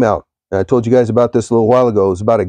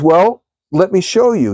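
higher, slow, gently knowing God; patient God; 6 semitones higher than usual. Retold or imitated. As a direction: take your time, like God revealing a secret. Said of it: "And he says".

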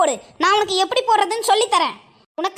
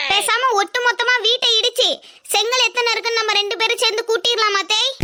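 naive daughter-in-law. Acted.

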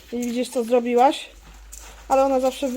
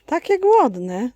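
1 doting to animals; 5 semitones higher, 3 dB louder, much slower than usual. Real, not acted. Talking to hungry animals.

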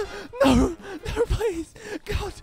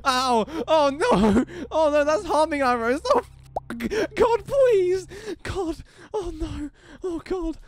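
much higher, frantic cries; panicked yelps; 9 semitones higher than usual. Real, not acted. Player hit by God's arrows, panicked yelps.

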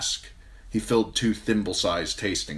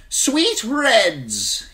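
high, loud merchant's call; crying out; 7 dB louder than usual. A narrator's reading. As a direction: call out to passers-by. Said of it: "he cried".

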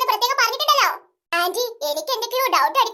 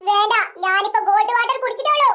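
pretend haughty heiress; 5 semitones lower than usual.

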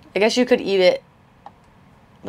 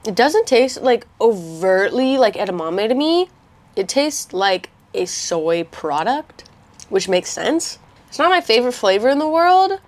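talking with food in mouth; speaking between bites; chewing while talking; 2 semitones higher than usual. Real, not acted. Seen 2: Bites chip at -5; jaw works, chips in hand throughout.

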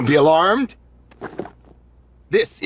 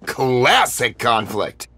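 excited; 3 semitones lower than usual. Acted. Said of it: "Would you calm down".

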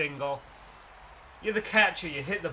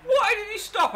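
disbelieving shout; 7 dB louder than usual. Real, not acted. Runner stopped again.

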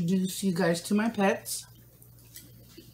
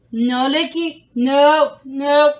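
firm no; 4 semitones higher, 6 dB louder, much slower than usual. Real, not acted. Scolding puppy licking.

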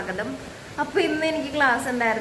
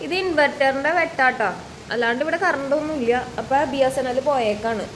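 usual speaking voice

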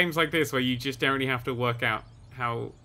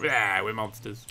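lightly voiced robot, slow and drawn out; a hint of a lumbering monster; mock robot voice; 5 semitones lower, slower than usual. Mimicking game robots for viewers, lightly voiced slow monster. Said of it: "when they go".

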